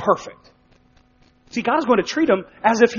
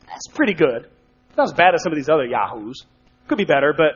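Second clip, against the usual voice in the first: lightly mocked half-hearted appraisal, lower pitch; grudging approval; 5 semitones lower, faster than usual. Preacher imagining God rating Abram's behavior, mildly grudging. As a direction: play a lukewarm, offhand assessment.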